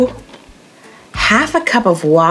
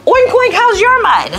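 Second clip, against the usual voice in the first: high, slow piggy play voice; 10 semitones higher than usual. Pretend. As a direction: play a piglet rolling in mud. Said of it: "act like piggies together".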